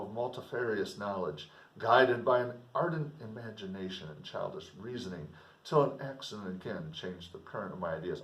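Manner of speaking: measured literary reading; steady classroom reading of a novel; novel read aloud. Acted.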